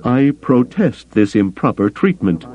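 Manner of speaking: high-pitched, ruffled alien counselor; indignant Bothan. A narrator's reading. Captured Bothan protesting his treatment to Carter, indignant. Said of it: "somewhat less melodious than the Bothan norm".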